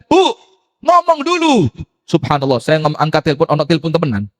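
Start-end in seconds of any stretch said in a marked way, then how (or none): 0.1-1.7 high, coaxing plea to a crying caller. Retold or imitated. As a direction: gently urge her to speak first. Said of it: "Saya bilang". (membujuk ibu yang menangis agar bicara dulu)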